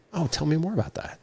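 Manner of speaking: high, soft inviting voice; gentle curiosity. Acted. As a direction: softly coax them to open up. Models gentle alternative question to why.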